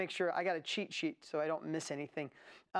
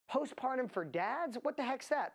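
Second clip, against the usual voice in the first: mock disbelief; 5 semitones higher than usual. Host voicing doubters of the niche, "Postpartum for dads" said incredulously. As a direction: question "Postpartum for dads" as if baffled, pitch rising.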